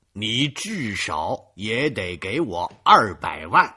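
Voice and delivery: loud furious yelling; angry shouting. Acted. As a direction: blow up at him. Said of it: "勃然大怒". (勃然大怒地吼)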